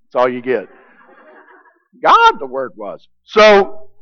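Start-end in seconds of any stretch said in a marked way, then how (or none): 2.0-3.1 high-pitched little Yoda voice; playful Yoda impression, voice raised high. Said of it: "That's my best Yoda".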